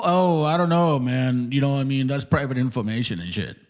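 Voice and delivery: mock shrugging excuse; mocking imitation. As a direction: imitate someone dodging the question, trailing down into a laugh. Mocks opponent's evasive answer.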